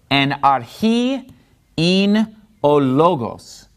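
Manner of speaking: slow "ologos", stressed on "lo"; stress on accented syllables. Shown as a demonstration. Teacher showing where the stress falls, slow "En archi in ologos". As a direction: space out the words, stressing "chi" in "archi". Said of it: "And notice in logos".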